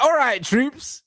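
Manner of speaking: slow and sing-song, taking the mick; mock greeting. Fan mocking rivals' greeting to Troops, slow and high. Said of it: "there was like".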